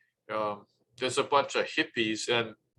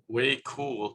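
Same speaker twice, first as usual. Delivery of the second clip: lightly imitated Valley Girl; a hint of mock Valley Girl. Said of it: "entertained by the Valley Girl talk".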